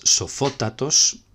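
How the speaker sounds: slow "sofótatos" with FÓ punched; stress on FÓ. Shown as a demonstration. Teacher giving the superlative, "sofótatos" stressed on FÓ. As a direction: stretch out "sofótatos", leaning on its second syllable. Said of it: "con acento en la misma sílaba".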